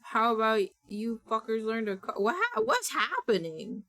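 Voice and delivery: suddenly confused at the screen; startled. Real, not acted. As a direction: voice jumps high as she slows, caught off guard. Annoyed, then startled at game.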